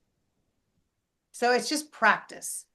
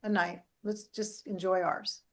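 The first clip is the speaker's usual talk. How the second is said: laid-back calm, not bothered at all; relaxed shrug; 6 dB quieter than usual. Retold or imitated. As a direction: let it go with a casual shrug. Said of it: "And another person go".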